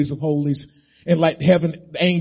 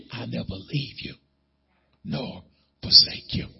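softer, lower whispered promise; hushed promise; 6 semitones lower, 8 dB quieter than usual. Acted. God's promise to the believer, hushed and low. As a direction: let it fall to a near whisper. Soft voice of God.

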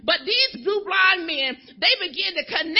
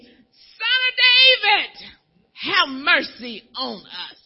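crying out; 4 dB louder, slower than usual. Retold or imitated. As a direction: cry it out, begging for mercy. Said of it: "because they were crying out".

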